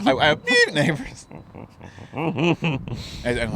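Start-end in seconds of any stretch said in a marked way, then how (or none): 0.1-1.2 high-pitched bleep dropped in before "neighbors"; jokey high censor beep in the middle; imitated censor bleep. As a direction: bleep yourself mid-sentence, laughing. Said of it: "just bleep out the racism".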